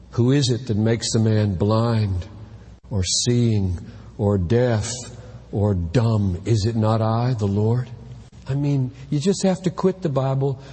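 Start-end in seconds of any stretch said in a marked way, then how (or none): 0.1-7.9 slow, low and grave; solemn scripture reading. Retold or imitated. Preacher quoting the Lord from Exodus, slow and grave. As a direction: read it as the voice of God. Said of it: "Exodus four eleven".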